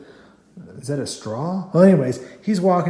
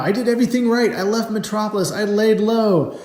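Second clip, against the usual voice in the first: acted villain's lament; 6 semitones higher than usual. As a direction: play the frustrated villain pleading his case, stretching the end.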